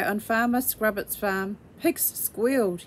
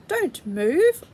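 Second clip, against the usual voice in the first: urgent call; 6 semitones higher, 4 dB louder than usual. A narrator's reading. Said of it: "said Farmer Scrubbit".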